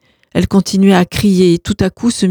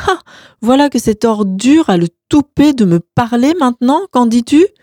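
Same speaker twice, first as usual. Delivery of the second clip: higher, sneering outrage; mock her with scornful indignation; contemptuous sneer; 5 semitones higher, 3 dB louder than usual. Roman sneering at his sister-in-law, higher and scornful.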